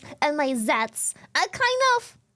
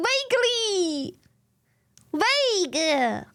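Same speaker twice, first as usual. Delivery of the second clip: laughing protest; 7 semitones higher, slower than usual. Retold or imitated. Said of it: "I'm like".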